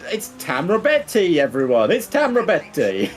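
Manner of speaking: hammed-up Italian accent on a place name. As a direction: roll out the stage name like an Italian announcer. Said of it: "I don't know why I put an Italian accent on it".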